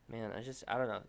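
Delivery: ordinary talk, nothing marked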